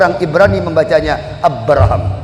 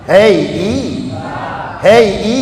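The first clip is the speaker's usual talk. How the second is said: calling out, building; 4 semitones higher than usual. Acted. God calling Isa, building.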